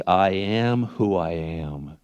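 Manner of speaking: slow, measured declaration; God speaking. Acted. God answering Moses, slow solemn declaration. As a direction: declare it slowly, each word drawn out. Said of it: "God said to Moses".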